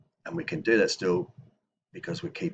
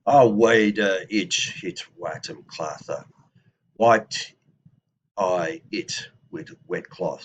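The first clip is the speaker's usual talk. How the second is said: slow, louder declaration; declaring, a touch louder and slower; declarative reading; 7 dB louder, slower than usual. Shown as a demonstration. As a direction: read it out as a firm statement. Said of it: "I maybe make a de-, declaration".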